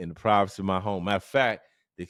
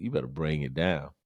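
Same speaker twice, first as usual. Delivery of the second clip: ordinary talk, nothing marked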